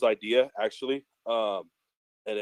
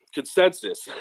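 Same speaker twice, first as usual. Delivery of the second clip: careful retry; 8 semitones higher than usual. Real, not acted. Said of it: "I'm just gonna skip that word".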